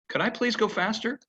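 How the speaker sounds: high, meek little request; horse pleading. Retold or imitated. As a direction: voice the horse asking nicely.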